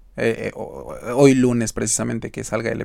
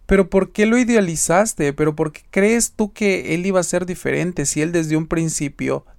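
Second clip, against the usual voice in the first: exasperated scolding; 3 semitones higher than usual. Retold or imitated. Retelling his scolding of friend.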